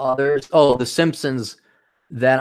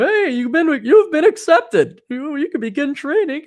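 mock recruiter; 13 semitones higher, 3 dB louder than usual. Police clerk announcing acceptance, high chirpy mock voice. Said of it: "they got back to me".

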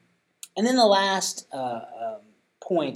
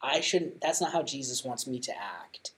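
sincere apology; 3 dB quieter than usual. Retold or imitated. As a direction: tell your little boy you are sorry, gently. Father apologizing to his young son.

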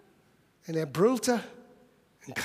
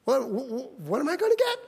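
put-on eager teen; faster than usual. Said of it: "Davids erster Gedanke war".

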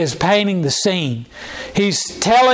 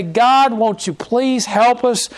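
pleading prayer; 2 semitones higher than usual. Retold or imitated. Preacher voicing the congregation crying to God, raised pleading. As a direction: beg God for help, hands lifted. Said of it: "we lift up our voice to God and we say".

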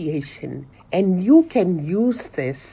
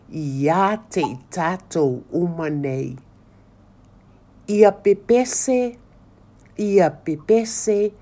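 slow recitation. Shown as a demonstration. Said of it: "I invite you to say the words after me".

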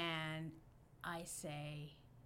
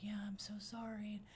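hushed sorry; whispered apology; 5 dB quieter than usual. Retold or imitated. Apologizing to cop.

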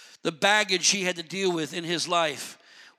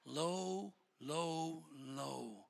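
each low lower and softer, dying away; fading low; 4 semitones lower, 17 dB quieter, much slower than usual. Shown as a demonstration. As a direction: let the voice sink with every low. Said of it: "See how he sees himself?".

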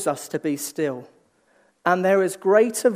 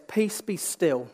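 hushed command; 5 dB quieter, slower than usual. Acted. God speaking to the storm.

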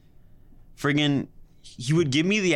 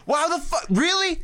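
much higher outraged disbelief; incredulous; 14 semitones higher than usual. Retold or imitated. Son to dad, high outraged disbelief. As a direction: scoff at the insult. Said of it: "I'm like".

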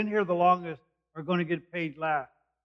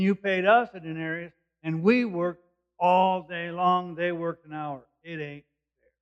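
grumbling workers; 2 semitones higher, 4 dB louder than usual. Retold or imitated. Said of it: "they grumbled at the landowner".

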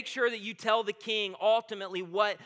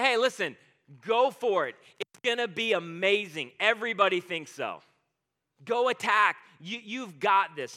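loud, mock-encouraging sarcasm; sarcastic cheer; 6 dB louder than usual. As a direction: cheer him on with obvious sarcasm. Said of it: "he's being completely sarcastic".

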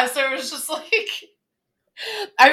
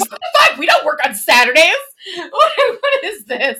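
outraged mock; 3 semitones higher, 4 dB louder than usual.

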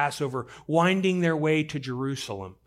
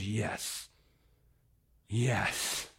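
low, soft assent; hushed, reassuring answer; tender yes; 6 semitones lower, 8 dB quieter than usual. Acted. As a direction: grant it gently, almost to yourself. God's answer to the plea.

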